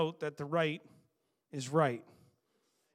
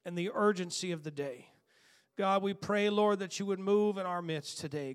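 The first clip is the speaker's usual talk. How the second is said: earnest, rising congregational prayer. Acted. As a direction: pray aloud and build the fervour.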